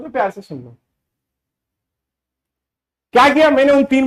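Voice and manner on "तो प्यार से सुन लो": gently. Real, not acted. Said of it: "प्यार से समझाना चाहता हूं".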